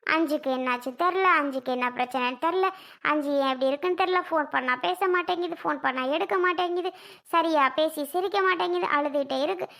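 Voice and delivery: half-hearted mimicry of his endless moaning; mock lament.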